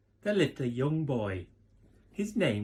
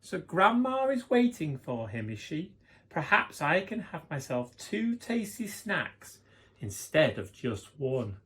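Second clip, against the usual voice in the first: sly wolf; 3 semitones higher than usual. Acted. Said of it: "the wolf thought".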